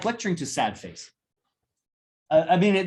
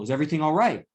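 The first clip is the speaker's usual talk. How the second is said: gentle check-in; faster than usual. Shown as a demonstration. Lecturer gently asking his student if she's okay. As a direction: ask it kindly, like you mean it. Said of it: "so I don't ask that question".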